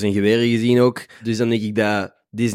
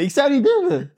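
suppressed giggles; 13 semitones higher than usual. Real, not acted. Giggling while talking.

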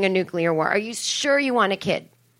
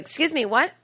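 higher, incredulous pitch; taken aback; 5 semitones higher than usual. Acted. Child questioning parents about nuke drills, taken aback. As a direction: act out a startled comeback. Acted shocked reply to parents.

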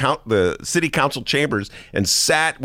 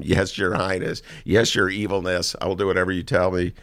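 groveling servant; 4 semitones lower, 4 dB quieter than usual. Retold or imitated. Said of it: "he bowed down to him".

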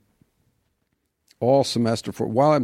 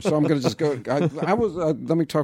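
amused; 6 semitones higher than usual. Acted. Acting out exam filibuster while laughing.

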